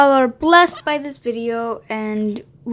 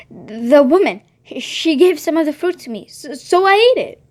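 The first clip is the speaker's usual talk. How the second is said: stammering man; 3 semitones higher than usual. Acted. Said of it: "stammered the man".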